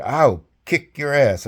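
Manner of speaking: slow, deliberate threat; angry colonel threatening, slow and heavy; retold threat. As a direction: let each word land slowly. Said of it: "He said".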